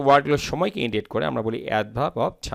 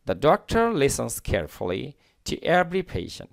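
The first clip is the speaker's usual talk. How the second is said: slow model reading; much slower than usual. Shown as a demonstration. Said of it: "reads model sentence for learners".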